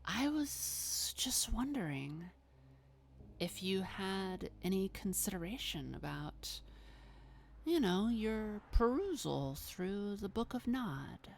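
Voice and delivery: lightly voiced vampire, politely probing; Babs. Malkavian greets the cave's owner about a book, lightly acted coaxing.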